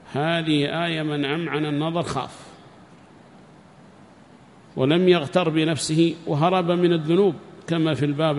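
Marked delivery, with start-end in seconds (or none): none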